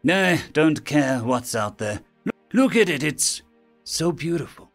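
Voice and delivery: chirped. Acted. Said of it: "Lieutenant Laura chirped".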